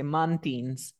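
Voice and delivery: mountains said as MAN-tins, slow and clear; teacher's model pronunciation. Shown as a demonstration. Teacher models the word for a student, slow and clear. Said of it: "how do you pronounce mountain".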